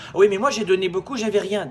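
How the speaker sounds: mock a moaning employee; whiny complainer.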